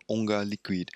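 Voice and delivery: lightly attempted French pronunciation; awful French accent. Shown as a demonstration. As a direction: say the name in a clumsy French accent. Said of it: "inflicting my awful French accent on you".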